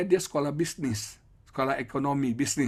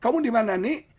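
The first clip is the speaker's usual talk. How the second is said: higher, louder, repeated anxious calling; nagging parent; 8 semitones higher, 5 dB louder than usual. Retold or imitated. Parent phoning the child every five minutes, nagging calls. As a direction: pester the child over and over. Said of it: "tiap lima menit tanya".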